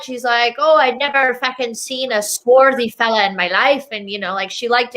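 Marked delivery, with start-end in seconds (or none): 0.6-3.9 lightly put-on Irish accent; imitated Irish mom. Host quoting mom on dad, mimicked Irish accent. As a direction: mimic an Irish mother, matter-of-fact. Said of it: "And my mom".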